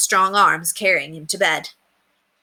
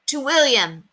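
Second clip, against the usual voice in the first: crowd cheering back, pitched higher; happy crowd cheer; 7 semitones higher, slower than usual. A narrator's reading. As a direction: raise it like a hall full of cheering guests. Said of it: "answered a hundred happy voices".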